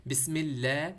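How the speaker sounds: light "lleh" in اللہ; careful thin-lam demo of اللہ. Shown as a demonstration. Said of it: "یعنی پتلا پڑھنا ہے".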